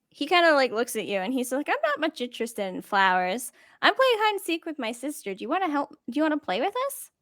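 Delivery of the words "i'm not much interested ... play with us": lightly voiced child; a hint of an eager little boy; halfling boy. Halfling boy inviting a stranger to play, lightly childlike. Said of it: "he looks pretty young".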